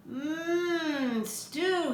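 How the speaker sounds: longing mmm over the stew; dreamy sigh. A narrator's reading. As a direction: savour the thought of food. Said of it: "he sighed".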